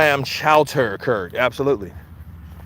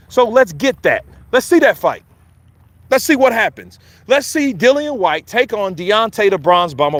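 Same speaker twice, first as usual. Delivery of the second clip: excited; 4 semitones higher than usual. Real, not acted. Hyping up a fight.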